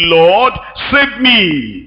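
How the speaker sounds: slow, drawn-out plea from a sinking man; slow cry for help. Retold or imitated. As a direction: let each word stretch out like a desperate prayer. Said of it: "he cried, saying".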